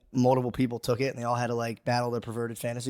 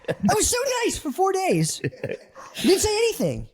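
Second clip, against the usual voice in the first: spazzing out. Retold or imitated. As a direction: snap after days of holding it in. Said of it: "I'll spaz and be like".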